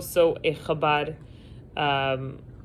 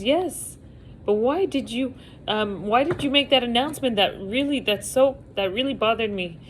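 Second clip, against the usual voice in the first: upset question; 6 semitones higher than usual. Retold or imitated. Passenger upset, high pitched.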